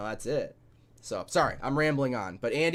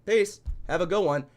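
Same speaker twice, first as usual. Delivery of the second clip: sing-song, high and loud goodbye, a little cocky; mock cheery brush-off; 7 semitones higher, 6 dB louder than usual. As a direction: toss off the farewell breezily, like walking out on a bad deal. Mock breezy brush-off to venue.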